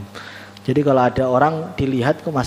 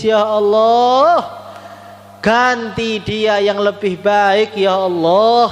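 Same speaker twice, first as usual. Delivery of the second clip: drawn-out, raised mock-tearful cry to God; retold tearful plea; 4 semitones higher, much slower than usual. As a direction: plead slowly, stretching each phrase, lightly imitating tears. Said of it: "yang dikasih itu nangis". (doa memelas panjang, menirukan orang menangis)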